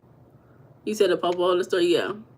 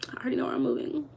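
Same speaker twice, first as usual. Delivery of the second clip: giddy; 4 semitones higher, 6 dB quieter, much faster than usual. Real, not acted. Giddy repeat, higher and fast.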